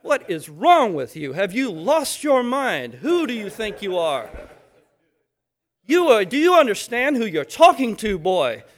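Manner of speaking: put-on loud, sharp dressing-down of a boy; mock-furious teacher rebuke; stern scolding. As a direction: nail him to the floor with your voice. Scolding a child, acted.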